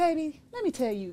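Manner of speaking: gentle, sugary, soft, high put-on scolding tone. Acting out a hypothetical woman reading someone: soft sweet scolding voice. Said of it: "real soft".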